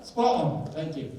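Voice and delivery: put-on high, cheery British accent; playful British sign-off. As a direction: pop out a bright bit of mock-British. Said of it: "I talk about my British stuff".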